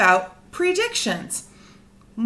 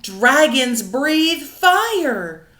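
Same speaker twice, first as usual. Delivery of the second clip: stern father; 4 dB louder, much slower than usual. Acted. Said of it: "shouted his father".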